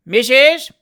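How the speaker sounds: loud, high threatening shout; agitated shout. A narrator's reading. Fat boy shouting in old lady's ear, agitated. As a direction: shout it urgently into a deaf ear. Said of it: "shouted the fat boy".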